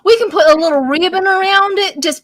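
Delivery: put-on Texan accent. Dressing up an imaginary hat, playful Texan accent. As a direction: play it up as Texan. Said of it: "we all can go Texan".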